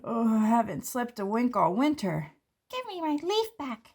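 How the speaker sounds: a seed woken too early, whining high; grumpy sleepy seed. Acted. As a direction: complain like a seed that hasn't slept. Sleepy seed character complains.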